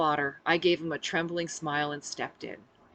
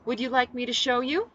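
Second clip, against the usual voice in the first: higher, coy inviting question; flirtatious; 7 semitones higher, 4 dB louder than usual. A narrator's reading. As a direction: tease them sweetly. Seductively luring the guards.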